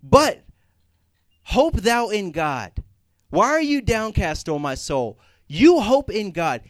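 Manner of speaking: loud, high, emphatic self-exhortation; David exhorting his soul. Retold or imitated. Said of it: "he talks to his soul and he tells him".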